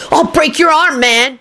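high, frantic threat; hysterical howl. A narrator's reading. Kenny threatening Rosie, howling hysterically. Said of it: "Kenny howled hysterically".

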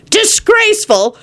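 high drawn-out disgust; mock outrage. A narrator's reading. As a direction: condemn it slowly. John condemns the drinking.

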